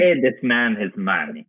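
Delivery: slow, lightly put-on Russian card-player drawl from Rounders; a hint of a smug Russian gambler, slowly; John Malkovich impression. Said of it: "I just wanna hear John Malkovich".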